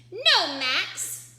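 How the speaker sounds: high, loud scolding no; Ruby's firm no. A narrator's reading. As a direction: stop her brother sharply. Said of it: "said Max's sister Ruby".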